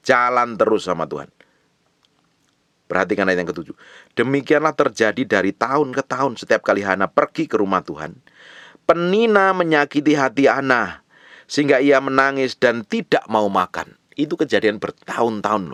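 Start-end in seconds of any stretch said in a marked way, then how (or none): 4.1-14.0 loud, raised preacher's reading voice; scripture reading. Acted. Preacher reads verse seven to the congregation, loud scripture reading. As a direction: read the verse out high and forceful.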